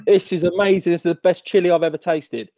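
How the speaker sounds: gushing, impressed praise; amazed delight. Retold or imitated. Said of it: "but I was like".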